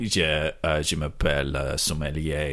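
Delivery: mock French accent, halting; French sommelier. Jean-Claude introducing himself to diners, French accent. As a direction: play a hesitant French sommelier.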